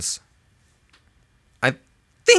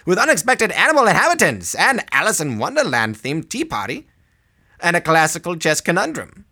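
put-on high, sing-song old-time announcer; old-timey voice; 5 semitones higher than usual. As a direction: read it like a 1940s newsreel. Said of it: "should I read it in my old-timey voice?".

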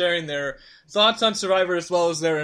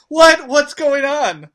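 high, slow, drawn-out confused what; RC in character; 8 semitones higher, 11 dB louder, much slower than usual. Retold or imitated. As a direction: play it wide-eyed and baffled. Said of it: "she was in character".

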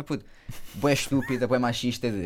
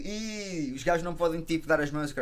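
put-on high kid's playground taunt; childish taunt; 6 semitones higher than usual. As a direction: sneer like a nine-year-old. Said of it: "aquela cena de". (provocação infantil, aguda)

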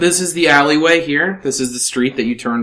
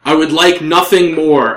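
elven woman; 4 semitones higher, 5 dB louder than usual. Acted. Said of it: "The elven woman would say".

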